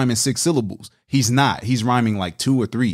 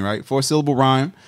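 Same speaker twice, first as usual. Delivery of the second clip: ordinary delivery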